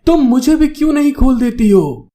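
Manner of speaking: high-pitched, understated yell for help; pleading shout. A narrator's reading. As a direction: call out a protest, pleading. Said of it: "मदद मांगते हुए चिल्ला के कहता है".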